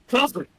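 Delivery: sneeze. Real, not acted. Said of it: "You sounded like you said Harvey".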